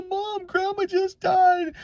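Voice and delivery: high, slow, drawn-out imitation of a wailing kid; retold crying out. Child insisting to Mom that Grandma died, imitated high wail. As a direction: stretch it out high, pleading with Mom. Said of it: "crying out loud to Mom".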